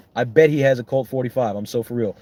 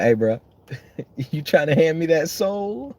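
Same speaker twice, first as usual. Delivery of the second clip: Satan; 6 semitones higher than usual. Retold or imitated. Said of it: "He's like".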